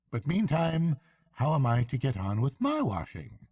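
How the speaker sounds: high, hearty barge woman; bright country woman chatting. A narrator's reading. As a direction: barge woman offering a lift.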